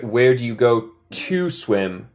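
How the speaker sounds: slow, careful "Where do you go to swim?"; teacher modelling "Where do you go to swim?"; model phrase. Shown as a demonstration. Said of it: "Hay que decir".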